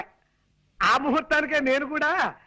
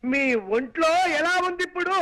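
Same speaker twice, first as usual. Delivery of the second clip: raised voice; 2 semitones higher than usual. Acted. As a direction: say it up so she can hear. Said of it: "అంత గట్టిగా అరవకు నాయనా".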